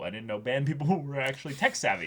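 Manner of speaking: lightly mocking and condescending, with a laugh breaking in; snooty. Podcaster imitating Ugetsu's snooty praise of a band. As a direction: sniff at band people with mild snobbery.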